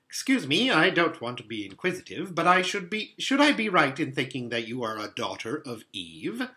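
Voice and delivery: a hint of an inquisitive faun; lightly played faun, tentative; lightly voiced polite fawn. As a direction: ask politely as a hesitant fawn.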